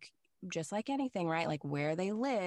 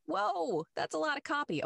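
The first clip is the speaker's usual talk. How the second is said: mock surprise; 10 semitones higher than usual. Voicing self reacting to client.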